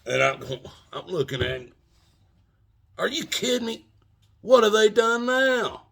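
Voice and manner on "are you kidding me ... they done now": much higher and louder, faking amazement; hammed-up fake astonishment; mock surprise. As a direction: play it up like you're stunned. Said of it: "I'm acting like I know".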